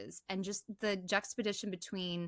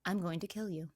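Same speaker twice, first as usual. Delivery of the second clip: chilling calm threat; faster than usual. Retold or imitated. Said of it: "the most chilling, calm voice".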